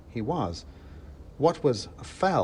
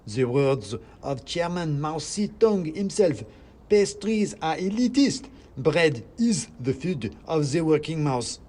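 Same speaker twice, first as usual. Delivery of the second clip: high, slow squeaky sermon on bread; a tiny zealot quoting scripture; preaching mouse; 5 semitones higher, 4 dB louder, slower than usual. Acted. Mouse reads from pamphlet.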